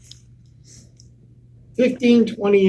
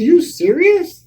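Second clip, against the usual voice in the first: high, slow, louder disbelief; shocked disbelief; 12 semitones higher, 7 dB louder, slower than usual. Retold or imitated. Hearing the fake is making money, slow stunned shock. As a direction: stretch it out in shock.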